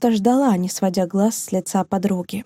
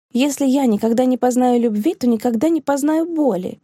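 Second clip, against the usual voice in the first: sharp retort; 4 semitones higher than usual. Acted. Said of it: "резко возразила девушка".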